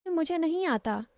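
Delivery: a touch of bashfulness in the refusal; shy refusal. Acted. Girl asked by Ankit to dance, mildly shy refusal. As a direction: decline shyly, lightly acted. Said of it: "मैंने शर्माते हुए कहा".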